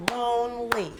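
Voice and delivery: lonely said as two separate beats, lone-ly; split into syllables. Shown as a demonstration. Teacher asks how many syllables, lonely split in two. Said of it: "how many syllables are in the word".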